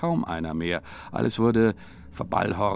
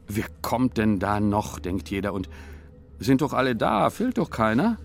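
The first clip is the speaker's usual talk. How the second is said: puzzled villagers. Acted. Villagers wonder who comes.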